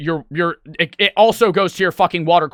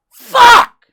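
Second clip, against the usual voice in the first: very high, loud yell; panicked scream; 12 dB louder than usual. Retold or imitated. Streamer reenacting his panic over the dead PC, panicked scream. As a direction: scream it at full pitch.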